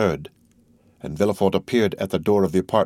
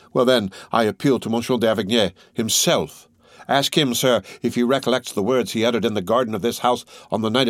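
raised, relentless accusing voice; Morel's grim accusation; 3 semitones higher than usual. Acted. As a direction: hammer each charge home. Morel's speech continues.

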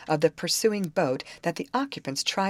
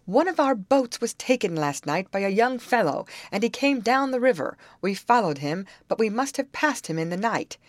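raised, mildly desperate explanation; growing desperate; 7 semitones higher, 3 dB louder than usual. A narrator's reading. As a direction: plead your case, voice lifted. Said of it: "seemingly growing desperate".

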